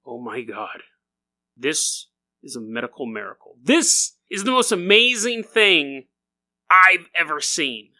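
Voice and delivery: low, awed doctor's whisper; a bored doctor suddenly amazed; awed hushed gasp. Acted. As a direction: breathe it like you've found treasure. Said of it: "he goes".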